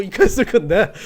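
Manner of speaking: loud, amused, breaking into laughter; laughing. Real, not acted. Pastor jokes about having a thousand members, laughing. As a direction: say it through a self-mocking laugh.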